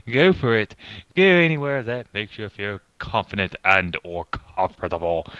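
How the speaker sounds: put-on pompous British accent, reading aloud. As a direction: read it like a pompous British narrator. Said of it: "read it in a pompous British voice".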